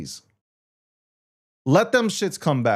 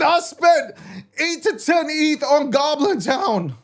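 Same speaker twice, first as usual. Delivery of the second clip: exasperated shout; 10 semitones higher, slower than usual. Real, not acted. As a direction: yell it like you can't believe your own mistake. Shouts the same words again.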